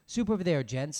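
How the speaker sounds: loud friendly barkeep call. Acted. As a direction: call the men over to the soup. Bartender calling out to men.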